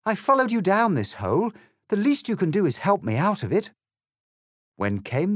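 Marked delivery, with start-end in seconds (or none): 0.0-3.7 high, loud indignant yell; exasperated high-pitched shouting. A narrator's reading. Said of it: "she yelled".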